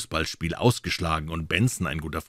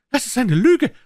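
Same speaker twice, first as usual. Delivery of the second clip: a louder, forced-out denial; blurted denial; 9 dB louder than usual. A narrator's reading. Munsey denying the accusation, blurted angrily. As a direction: push the words out angrily. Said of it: "stieß John Munsey hervor".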